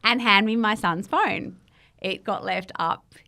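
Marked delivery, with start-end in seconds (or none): 0.0-1.5 mum's panicked, laughing, higher, louder outburst; frantic mum. Retold or imitated. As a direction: bursts out half-laughing, half-crying, near a shout. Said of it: "And she's like".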